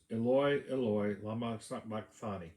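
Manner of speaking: loud cry. Retold or imitated. Jesus calling to God from the cross, a loud cry. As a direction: cry out the name with force, mildly. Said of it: "Jesus cried out in a loud voice".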